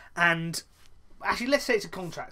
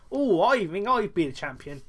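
Braun Strowman impression; 4 semitones higher, 6 dB louder than usual. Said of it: "Guess which one was Braun Strowman there".

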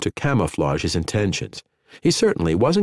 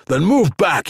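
gruff snap; 9 semitones higher, 4 dB louder than usual. A narrator's reading. Hockner snapping at Daniel.

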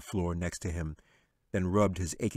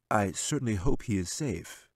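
smiling wizard. Acted. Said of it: "Gelzuin said, and smiled".

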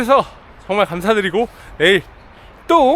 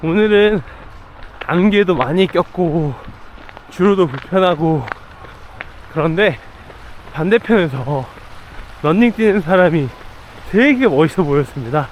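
talking while jogging; breathy voice mid-run; while running. Real, not acted. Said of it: "데일러닝을 나왔습니다". (달리면서 말하기)

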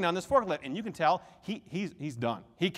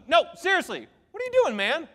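excited construction worker; 8 semitones higher, 3 dB louder than usual. Retold or imitated. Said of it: "he goes".

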